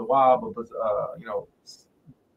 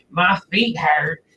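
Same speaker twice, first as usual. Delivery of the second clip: mock bored churchgoer; 3 semitones higher, much slower than usual. First take of the complaint.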